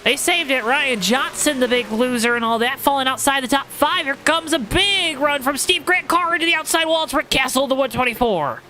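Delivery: upbeat play-by-play call; race commentator. Acted. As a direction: call the restart like a racing announcer.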